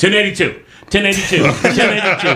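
high-pitched yelling, repeated over and over. Retelling how he yelled out the change while she took a call. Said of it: "I'm just yelling".

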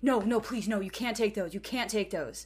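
put-on desperate begging. Retelling Adam's reaction when the pills are found in his desk, acting out a desperate plea. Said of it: "Adam's face changes so swiftly from anger to desperation".

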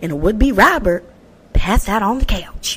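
put-on country accent, slipping into it. Reading a Florida news story aloud: country voice. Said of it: "i don't know why i went into my country voice just now".

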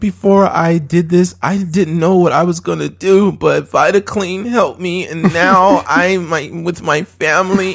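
badly acted fake tears, almost crying. Imitating a product testimonial given while fake crying: imitating fake crying. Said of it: "the person will be almost crying, like, fake crying".

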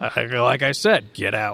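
gruff, rough voice. A carriage driver tells the passenger again to get out, gruff driver voice. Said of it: "a gruff voice comes back".

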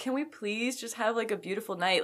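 sorrowful, hopeful, sad pleading tone. Discussing a man who sounded sad, imitating someone's sad voice. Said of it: "it's like sad because you can hear it in his voice".

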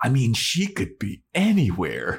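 dramatic, ominous, foreboding delivery.

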